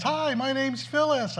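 put-on high, slow old-lady greeting; lightly sweet senior lady; a high, slow hello; cheerful old lady. Cheerful old lady introduces herself.

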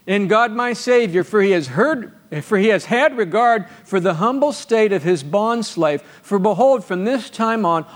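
measured pulpit reading voice; scripture reading. Acted. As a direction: read the verses out to the church with lift. Reads Mary's Magnificat.

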